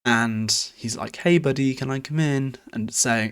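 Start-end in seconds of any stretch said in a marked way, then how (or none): 1.2-2.6 tentative friendly greeting. Retold or imitated. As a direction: call it out like greeting a pal at the door. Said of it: "internal dialogue has been like".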